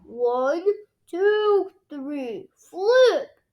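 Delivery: building count, loud high flip; dad counting down the toss. A narrator's reading. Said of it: "says Daddy Pig".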